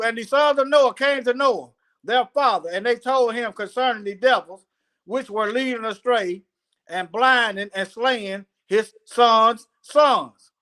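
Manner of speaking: measured recital with drawn-out key words; scripture reading. Acted. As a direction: read it out phrase by phrase. Reads scripture aloud.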